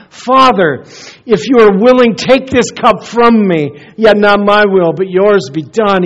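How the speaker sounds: restrained anguish, acted out in a preacher's retelling; anguished prayer. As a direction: plead earnestly in prayer, voice lifted. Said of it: "he prayed in anguish".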